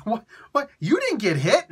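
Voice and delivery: high laughing mock shout; laughing mock panic. The brain wondering why the knees failed, laughing mock shout.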